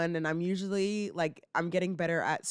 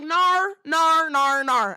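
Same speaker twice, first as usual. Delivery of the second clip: put-on loud, high British-accented refusal; mock British accent; 6 semitones higher, 8 dB louder, much slower than usual. Nanny refusing the boy's pleas, loud British accent. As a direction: shut it down with a British "no". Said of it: "I do the same thing to him".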